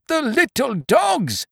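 high, flustered landlord stammering; panicked. A narrator's reading. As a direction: blurt it out in a panic.

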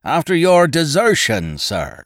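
"desertion" pushed high and loud; loud, pointed stress on "desertion"; emphasis on desertion. A narrator's reading. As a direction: lean hard on the word "desertion". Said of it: "laying a particular emphasis upon the word desertion".

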